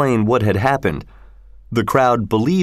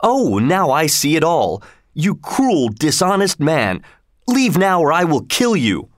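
higher-pitched, indignant accusation; angry cry; 5 semitones higher than usual. A narrator's reading. Hendon turns on his cruel brother, crying out angrily. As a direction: accuse and threaten, pitch raised. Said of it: "Hendon cried".

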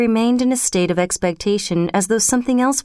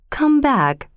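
loving; 6 semitones higher than usual. A narrator's reading. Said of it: "he said lovingly".

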